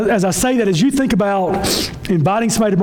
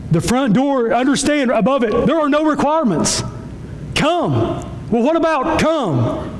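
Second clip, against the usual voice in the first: raised, emphatic pulpit declaration; impassioned preaching; 6 semitones higher than usual. Real, not acted. Pastor declaring the front door has no requirements, impassioned. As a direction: lift the pitch and proclaim it.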